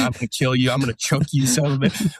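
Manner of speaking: mildly heated mock threat, pitch climbing toward the end; retold outburst. Injured soldier on a cot threatening his buddy, retold mild explosion. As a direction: imitate losing your temper, without shouting. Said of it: "I explode".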